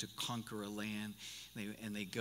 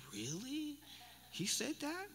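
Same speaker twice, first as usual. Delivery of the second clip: put-on much higher little girl voice, amazed; granddaughter's voice; 3 dB quieter than usual. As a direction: squeak it up like an astonished small child.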